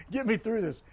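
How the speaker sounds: lightly hammed-up pleading burst; retold excited plea. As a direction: beg him half-jokingly to get you through it. Retold plea to fellow referee.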